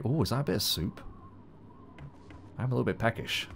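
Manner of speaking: a terrible put-on Scottish accent; deliberately bad Scottish accent, apologising to Scots; mock Scottish accent. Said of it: "I will mimic the accent".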